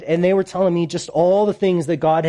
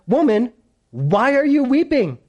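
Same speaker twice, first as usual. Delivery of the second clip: raised, measured reading voice; scripture reading; 5 semitones higher than usual. Acted. Preacher reading the angels' question to Mary, raised reading voice. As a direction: read the angels' question out, pitched up.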